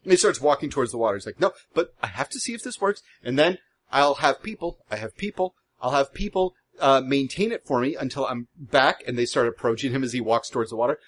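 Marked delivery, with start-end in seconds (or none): 1.4-9.0 lightly eager, quick agreement; a touch of a restless, eager boat builder; bundle of energy. Acted. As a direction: brush them off brightly while stalling. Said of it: "he is just nothing but a bundle of energy".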